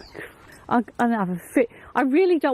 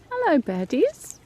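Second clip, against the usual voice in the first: coaxing a wild bird; 6 semitones higher, slower than usual. Real, not acted. Greeting birds slowly, high.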